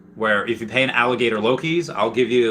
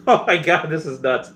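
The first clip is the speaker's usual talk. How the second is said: laughing out "oh my God", higher; real amused shock at the prices; giggling, high, stunned; laughing disbelief; 6 semitones higher, 3 dB louder than usual. Real, not acted. Reacting to wild NFT prices.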